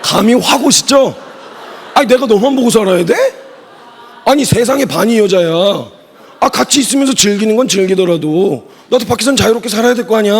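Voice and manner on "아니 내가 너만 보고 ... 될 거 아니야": brazen cheating husband. Retold or imitated. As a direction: act like the cheater who owes no one anything. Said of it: "뭐, 이런 식으로 나왔다". (뻔뻔한 남편 흉내, 당당하고 약간 크게)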